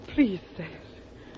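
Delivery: slow, soft pleading; a quiet, tender please. Acted. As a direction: beg him gently, drawing it out. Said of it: "when you ask me like that".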